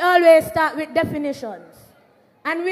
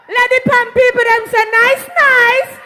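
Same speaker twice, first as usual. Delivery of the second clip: loud, higher call to the crowd; rally call-out; 4 semitones higher, 4 dB louder than usual. Real, not acted.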